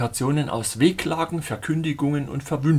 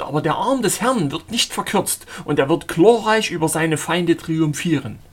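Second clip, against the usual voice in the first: much higher and louder, proclaiming his calling; fervent prophet voice; 6 semitones higher, 5 dB louder than usual. A narrator's reading. Zealot proclaiming himself called by God, fervent preaching. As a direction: thunder it like a self-appointed prophet.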